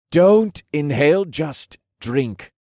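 high, teasing warning that eases off; playful caution. A narrator's reading. Lieutenant handing over a smelly drink, playfully cautioning. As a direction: caution lightly, punching the first words. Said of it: "he cautioned with a twinkle in his eyes".

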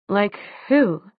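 mildly astonished question; a touch of puzzled surprise. A narrator's reading. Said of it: "said Jace in astonishment".

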